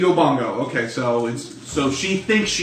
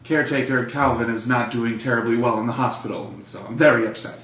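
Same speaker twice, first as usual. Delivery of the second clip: haughty matriarch. Acted. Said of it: "Sheba says".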